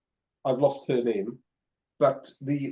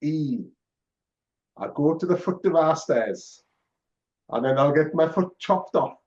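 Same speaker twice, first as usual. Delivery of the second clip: put-on Yorkshire accent, broad vowels; northern accent. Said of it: "you said it in a northern accent".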